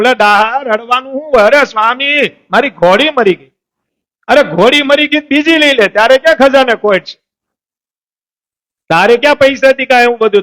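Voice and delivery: high, lively mock scolding; scolding swami. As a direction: chide him like a teasing elder. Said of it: "દાહા ખાચરને ઠપકો આપ્યો".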